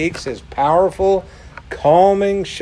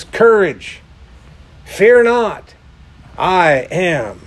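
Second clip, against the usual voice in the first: ringing proclamation; 3 semitones higher, slower than usual. Acted. Jesus calling across the stormy sea, ringing out. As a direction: call it out like a herald. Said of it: "a good translation says".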